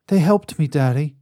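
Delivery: put-on a child begging his father; pleading child. Son insists the creatures helped him, high pleading child.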